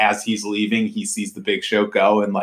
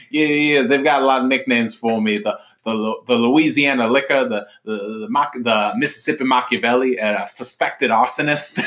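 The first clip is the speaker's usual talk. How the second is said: lightly voiced boastful Southern politician; a hint of a folksy Southern pol; Teddy Redbones voice; 3 semitones higher than usual. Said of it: "his fake Carville character, Teddy Redbones".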